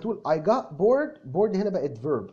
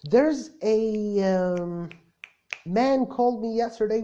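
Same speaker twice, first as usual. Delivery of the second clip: thinking aloud; 4 semitones higher, much slower than usual. Shown as a demonstration. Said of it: "وبتفتكر وأنت بتتكلم".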